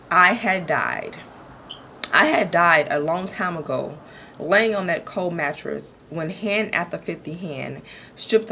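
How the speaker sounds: measured poetry recital with weighted pauses; poem reading. Acted. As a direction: read your own poem aloud, letting each line land. Reads her own poem aloud.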